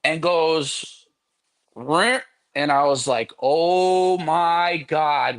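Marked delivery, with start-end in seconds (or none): 1.8-2.2 imitated sneaker noise. 3.4-5.4 retold stunned reaction.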